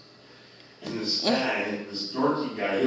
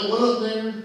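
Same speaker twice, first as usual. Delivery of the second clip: casual street greeting; 11 semitones higher, 6 dB louder than usual. Retold or imitated. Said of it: "he's like".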